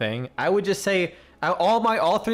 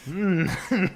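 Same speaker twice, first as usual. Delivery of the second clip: giggly Snake impression; much slower than usual. Shown as a demonstration. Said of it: "I just keep going".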